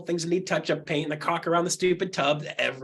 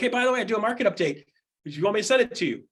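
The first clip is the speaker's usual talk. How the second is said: rattled off fast and bright, a little higher; quick casual offer; 5 semitones higher, faster than usual. Retold or imitated. Pitching his update to realtors he bumps into, fast and breezy. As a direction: toss out the offer quickly and lightly.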